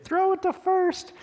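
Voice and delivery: high, loud yell across the field; mock crowd yell from the stands; screaming at the kid. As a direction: yell it like a Little League parent.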